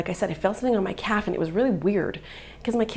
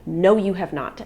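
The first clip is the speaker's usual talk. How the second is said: retold indignation; 2 semitones higher than usual. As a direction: re-enact an angry challenge. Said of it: "And I was so mad".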